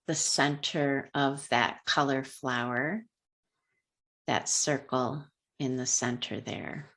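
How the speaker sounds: unhurried guiding voice with long pauses; calm, measured meditation lead; guided meditation. Real, not acted. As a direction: ease them gently through a color meditation, leaving space between phrases. Leads a color meditation.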